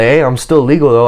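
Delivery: ordinary talk, nothing marked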